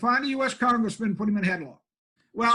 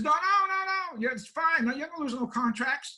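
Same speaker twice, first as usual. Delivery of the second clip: high, hurried "no, no, no" then settling; lightly voiced worried young woman; mock girl's alarmed protest; 6 semitones higher than usual. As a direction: imitate a woman rushing to reassure. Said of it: "a girl behind me screamed".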